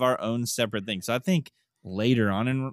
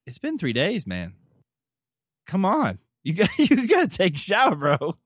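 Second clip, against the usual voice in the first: high, exasperated plea to students; mock begging; 10 semitones higher, 5 dB louder than usual. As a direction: plead loudly, pitched way up, half laughing. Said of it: "you have to beg 'em".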